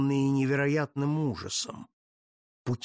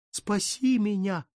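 anguished wail; 7 semitones higher than usual. Acted. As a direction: cry it out in despair. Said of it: "жалобно простонал он".

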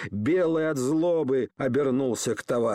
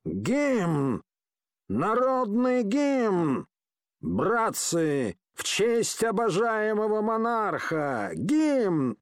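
hoarse bully yelling for the anthem, drawn out; rowdy thug's demanding shout; drunken shout; 6 semitones higher, slower than usual. Acted. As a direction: bellow it at the whole tavern. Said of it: "крикнул".

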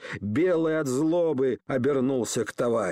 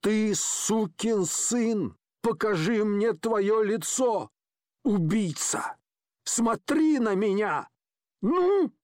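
slow, higher, forceful accusation; weighty, commanding; 6 semitones higher, slower than usual. Acted. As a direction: stare him down with every word. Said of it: "веско и властно".

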